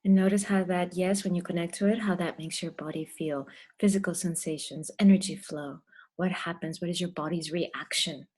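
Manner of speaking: measured meditation voice with long pauses; guided meditation. Real, not acted. Guide leads the group through breath and intention, guided meditation. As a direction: stretch the key words, leave room to breathe.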